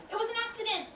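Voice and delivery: high, defensive plea; protesting. Acted. Girl to the one she upset, high defensive protest.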